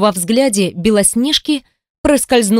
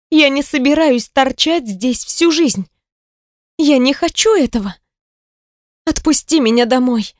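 higher heroine voice, protesting; pleading, defiant young woman; 5 semitones higher than usual. A narrator's reading. Woman demanding to be released home, high and protesting. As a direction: pitch it up as the indignant girl.

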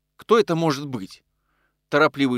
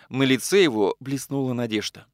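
ordinary delivery, nothing marked

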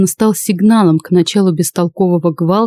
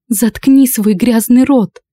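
slow, higher furious yell; angry shout; 5 semitones higher, slower than usual. Acted. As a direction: yell at him in rage. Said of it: "которая кричала".

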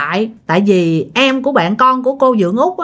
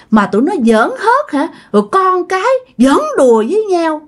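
ghost voice; 5 semitones higher than usual. Retold or imitated. Ghost retelling that night.

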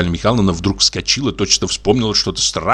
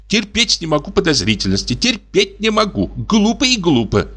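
irritated wife; 9 semitones higher than usual. Acted.

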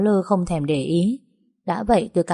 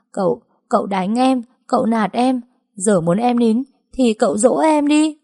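higher, whiny, on the edge of tears; whimpering plea; 5 semitones higher than usual. Acted. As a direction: plead like a sulky girl about to cry. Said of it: "Tôi mếu máo nói".

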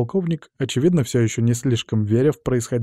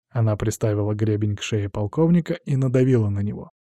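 ordinary talk, nothing marked

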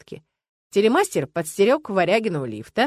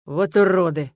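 a louder, flaring "Вот уроды!"; angry outburst; 5 dB louder, slower than usual. A narrator's reading. Стас flares up at drivers in traffic, angry outburst. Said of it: "взвился Самохвалов".

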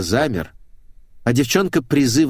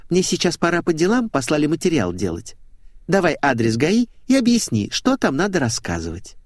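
put-on high-pitched girlish complaint; girlish blonde, pouting; 6 semitones higher than usual. A narrator's reading. Blonde shows her bruise and offers help, girlish pout. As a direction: play the aggrieved little coquette, pitched up. Narrator voices Svetik, the blonde.

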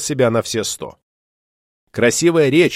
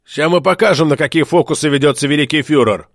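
threatening promise. Acted. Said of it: "пообещал напильник".

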